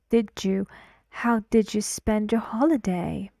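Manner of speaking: did you blended into didju, whispered; linked did you. Shown as a demonstration. Teacher whispers the linked did you to students. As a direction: whisper didju spend your holiday, linked. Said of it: "d, n, y, j".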